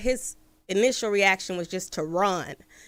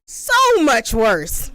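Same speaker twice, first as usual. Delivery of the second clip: dry sarcasm; 5 semitones higher, 4 dB louder, slower than usual. Retold or imitated. Sarcastic reply to roommate.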